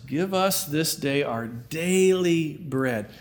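slowed, careful recitation; slow deliberate quote. Shown as a demonstration. Preacher testing memory, slow solemn recitation. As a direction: stretch out the prayer words. Preacher repeating prayer slowly.

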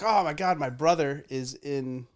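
high worried mom voice; mock worried mom. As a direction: mimic a panicked mother. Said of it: "she's like".

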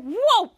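high swooping "whoa"; startled whoa. Retold or imitated. Ray slips on a gumball, startled yelp. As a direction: yelp as if slipping. He was like.

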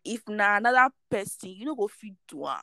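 spoken in Nigerian Pidgin. Real, not acted. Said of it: "I'm going to say it in pidgin".

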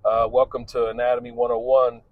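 mock-enthusiastic teacher opening day; cheery teacher. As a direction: greet sixty students like a peppy instructor. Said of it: "when I would say".

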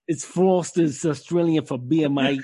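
put-on Australian ad slogan; attempted Aussie accent. Shown as a demonstration. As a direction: imitate an Aussie beer advert. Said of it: "try to do an Aussie accent".

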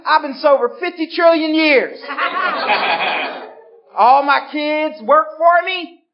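hammed-up slow cheerful share voice; laughing mock of a recovery speaker. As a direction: parody a smug old-timer at the podium, laughing.

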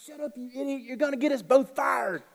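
high, strained, urgent reprimand; scolding lion in disguise. Acted. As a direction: hush him frantically so nobody overhears. Lion secretly scolds the fake gorilla.

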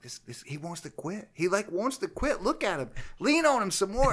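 coach yelling. Retold or imitated. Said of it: "I'm a screaming".

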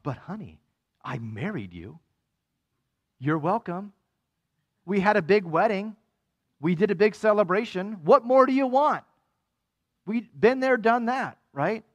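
a husband getting huffier with each excuse; defensive spouse. Acted. Preacher acting a spouse brushing off complaints, building indignation.

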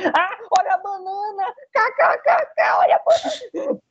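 very high, slow silly voice; shrieking goofy laugh; silly falsetto. Retold or imitated. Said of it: "quando você vai assistir o filme é o quê".

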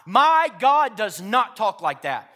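loud, slow, emphatic shout; fed-up declaration. Retold or imitated. Preacher fed up with hearing the lie, shouting back at it. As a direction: proclaim it forcefully, word by word. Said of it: "I was tired of hearing that lie".

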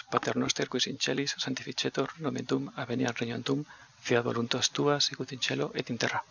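steady recited Our Father in Latin; leading the first half of a Latin prayer. Real, not acted. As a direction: pray it aloud, measured and devout.

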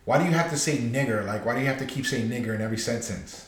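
imitating her, "nigger" with a pronounced final R; hard-R pronunciation. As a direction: quote her softly, "nigger" ending in a hard R. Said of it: "she was saying N-word".

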